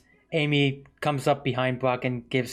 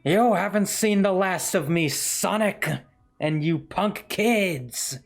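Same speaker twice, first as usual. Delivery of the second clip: mustache twirling villain; 6 semitones higher, slower than usual. Acted. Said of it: "He goes".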